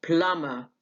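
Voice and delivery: بلاما with no b in the middle; silent b. Shown as a demonstration. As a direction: say بلاما, plumber without the b. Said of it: "دي ما بتتنطقش".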